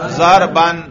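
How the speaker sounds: "ضرباً" ending clearly in -an; nasb ending. Shown as a demonstration. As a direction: say "ضرباً" with a final "an" sound. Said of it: "نصب پر ہم تلفظ کریں". ("ضرباً" نصب کے ساتھ، آخر میں "اَن")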